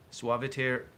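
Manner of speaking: badly accented Latin, projected; terrible Latin accent. Real, not acted. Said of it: "it's a terrible accent".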